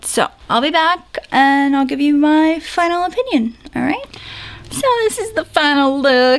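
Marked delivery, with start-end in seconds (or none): 4.7-6.4 awful, exaggerated, bad put-on Southern accent. Announcing the final nail polish look, in an awful Southern accent. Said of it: "I just said that with a really awful southern accent".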